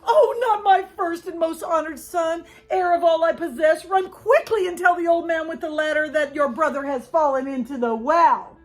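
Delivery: high, loud urgent command; alarmed mother. A narrator's reading. Mother sends son to the ladder man, alarmed. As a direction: send him running, urgent and high. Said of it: "mother cries out in alarm".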